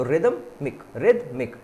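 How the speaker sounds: रिदमिक split in two, रिद, then मिक; syllable-by-syllable demo. Shown as a demonstration. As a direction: break रिदमिक after रिद, landing separately on मिक. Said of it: "दो syllable में टूटेगा".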